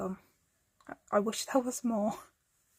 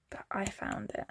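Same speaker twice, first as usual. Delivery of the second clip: whispering; 5 dB quieter than usual. Real, not acted. Aside while showing the drawing.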